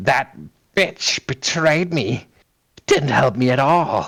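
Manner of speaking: growled werewolf monster voice. Session narrator voices Duristan speaking after the other wolf steps up: Duristan growling. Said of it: "you hear Duristan's voice when he growls".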